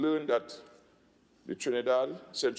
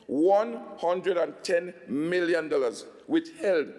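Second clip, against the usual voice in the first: slow and louder, hammering every word; loud and clear; 3 semitones higher, 4 dB louder, slower than usual. Real, not acted. Minister telling housing recipients about the withheld money, loud and clear. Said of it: "to hear that loud and clear".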